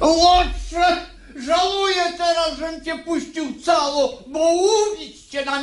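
enraged father shouting; angry shout. Acted. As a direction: roar at the scoundrel, fast. Father raging at son.

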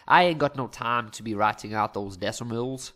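lightly hammed cowboy accent, wobbling halfway through; botched cowboy accent. Maths teacher joking about skipping decimals, half-committed cowboy accent. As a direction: attempt a cowboy twang and don't quite commit. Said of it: "I was going for a bit of, like, cowboy".

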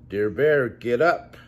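mild mock shout in Bear's ear; mouse shouting. Mouse waking Bear in his ear, mild mock shout. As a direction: call him awake, lightly. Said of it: "Mouse shouts in his ear".

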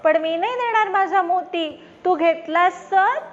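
guard the pearl, a little suspicious; wary sparrow. Acted. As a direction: sparrow refusing crow, warily. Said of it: "चिमणी म्हणते".

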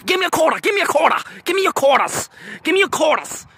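high, put-on pestering bum voice; high mock begging chant; mimicked beggars. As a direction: imitate little bums begging over and over. Mimics begging roach bums.

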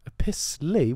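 incredulous. Real, not acted. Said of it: "What did you say?".

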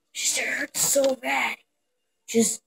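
strained breathy whisper of pain. Acted. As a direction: whisper through the hurt.

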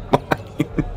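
soft whispered word; hushed, teasing mine. Acted. Flirting back after her pickup line.

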